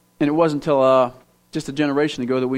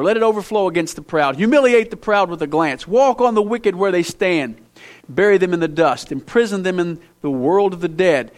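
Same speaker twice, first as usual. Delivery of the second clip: sarcastic. Acted. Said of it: "Listen to the sarcasm".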